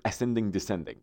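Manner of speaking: Persian-accented "ascending descending". Shown as a demonstration. (با لهجهٔ فارسی)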